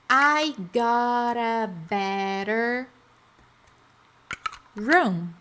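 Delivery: chunk by chunk, pausing before the last word; I got a better, then a beat, then job; spoken slowly for students to repeat; slow drill. Shown as a demonstration. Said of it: "Então, vamos lá".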